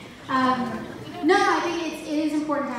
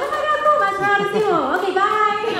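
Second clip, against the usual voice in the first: higher, louder, rushed delight; gush, then hurry away; flustered excitement; 8 semitones higher, 6 dB louder, faster than usual. Retold or imitated. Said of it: "I was like".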